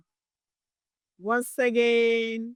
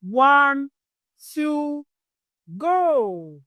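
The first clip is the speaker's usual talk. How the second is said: playful countdown; cheerful count-in; 5 semitones higher, much slower than usual. Shown as a demonstration. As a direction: count in like a kids' game. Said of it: "let's go from the first letter".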